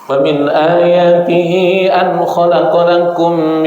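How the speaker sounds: slow, drawn-out chanted tilawah; Quran recitation. Acted. Preacher reciting the wedding verse, slow chanted tilawah. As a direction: chant the verse slowly, stretching the vowels.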